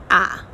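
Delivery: the opening "a" of animal said alone with stress; single stressed vowel as in the start of "animal"; stressed syllable isolated. Shown as a demonstration. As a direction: pick out the stressed "a" for learners. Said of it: "the first syllable".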